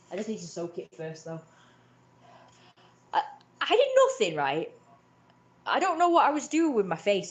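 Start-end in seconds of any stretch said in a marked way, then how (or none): 3.1-7.3 indignant protest. Real, not acted. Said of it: "indignant retelling".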